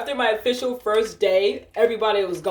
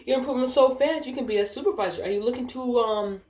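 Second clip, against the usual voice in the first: higher, coaxing praise; imitated flattering supervisor; 5 semitones higher than usual. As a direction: mimic a boss buttering up an employee.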